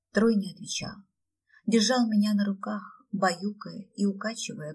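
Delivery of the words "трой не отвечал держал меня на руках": usual speaking voice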